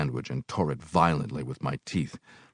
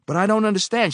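bewildered protest; 6 dB louder, faster than usual. A narrator's reading.

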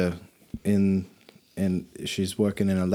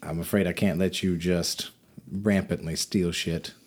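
lightly voiced official; 2 semitones lower, 4 dB quieter than usual. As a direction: speak like a polite, quiet functionary.

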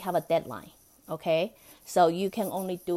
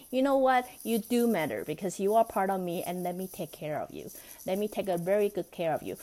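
kind reassurance. Shown as a demonstration. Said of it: "different aspect or attitude".

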